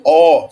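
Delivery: ó as one long open vowel, no glide; later pronunciation. Shown as a demonstration. Teacher giving the alternative pronunciation, ó without the i. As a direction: say a firm, loud ó. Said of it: "numa outra pronúncia mais, mais posterior".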